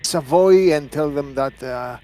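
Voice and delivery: intimidating. Acted. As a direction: lean on him with your status. Doctor intimidates the sergeant.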